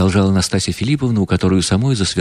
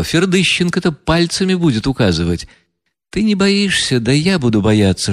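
higher, mocking proud woman's voice; proud bitter heroine; 5 semitones higher than usual. Настасья Филипповна насмехается над князем и Ганей, гордо и горько. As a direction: taunt them with bitter pride. Reader voices Nastasya Filippovna.

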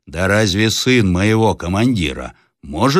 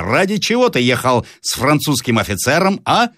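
higher-pitched interrogation, mildly raised; shouted challenge; 8 semitones higher than usual. A narrator's reading. Peasant demanding why he rode with a Frenchman, mild shout. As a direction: demand an explanation. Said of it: "закричал Ерёма".

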